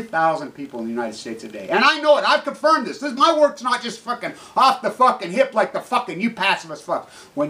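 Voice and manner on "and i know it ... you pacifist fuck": high, loud, unrelenting angry tirade; furious shout. Real, not acted. Speaker to pacifists, defending his estimate, in a furious shout. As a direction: let the rage take over.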